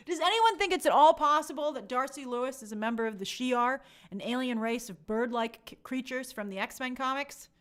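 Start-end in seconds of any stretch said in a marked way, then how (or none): 0.1-3.8 laughing disbelief. Real, not acted. Laughing at crazy theory.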